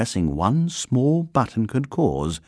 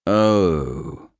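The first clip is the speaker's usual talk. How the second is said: stern; 2 semitones lower than usual. Acted. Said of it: "said a stern voice".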